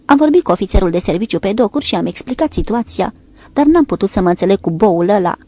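vehement. Acted. Lord's daughter to the girls at the car window, vehemently indignant. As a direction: spit out the complaint about the duty officer. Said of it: "li se adresă vehement".

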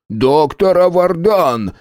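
choked, slow gasping cry. A narrator's reading. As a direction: force it out while being strangled. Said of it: "задыхаясь, выговорил Энус".

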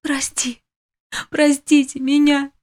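whisper rising to cry. A narrator's reading. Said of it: "прошептала Гвоздю".

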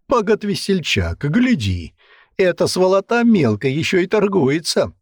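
high, amused exclamation; lightly voiced amused commander; exclaiming. A narrator's reading. Commander laughing at the haggling captive, high exclaim. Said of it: "воскликнул Рыжий".

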